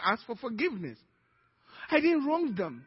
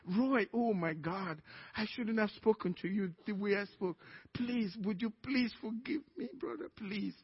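tearful pleading; 6 dB quieter than usual. Retold or imitated. To brother Roy, begging forgiveness, a soft retold tearful plea. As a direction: beg forgiveness, fading almost to nothing. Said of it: "And I'm crying".

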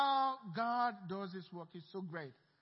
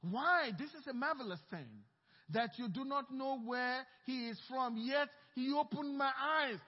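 defiant; 3 semitones higher than usual. Acted. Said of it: "The men answered and said".

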